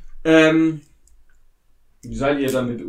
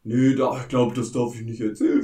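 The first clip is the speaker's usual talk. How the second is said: airport announcement; 5 dB louder than usual. Acted. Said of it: "Ich bin nur die Stimme".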